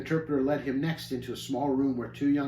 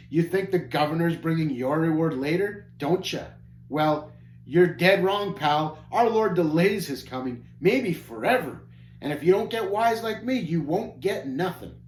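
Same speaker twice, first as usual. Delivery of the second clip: louder, sneering bratty taunt; 3 semitones higher, 4 dB louder than usual. Acted. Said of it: "Passion continued to taunt".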